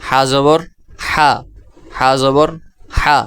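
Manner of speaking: হা জবর হা chanted as a drill; teaching pronunciation. Shown as a demonstration. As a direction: model হা for the class. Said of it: "এর পরবর্তী অক্ষর".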